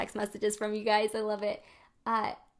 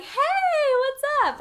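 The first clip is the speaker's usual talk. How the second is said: put-on much higher, sloppy drunk hello; drunk greeting; 5 dB louder, much slower than usual. Mimicking a drunk person greeting friends, high and loud. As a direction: play a tipsy party guest calling out. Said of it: "when people drink and they're like".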